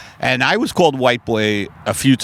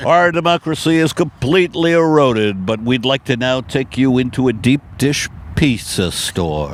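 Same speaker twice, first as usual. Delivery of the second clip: mock news anchor.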